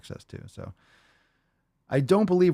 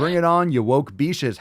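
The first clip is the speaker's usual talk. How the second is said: higher, louder bring-it-on; mock battle cry; 5 semitones higher, 4 dB louder than usual. Host reading a fan's post as a war cry, loud. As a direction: bellow it like a trash-talking fan.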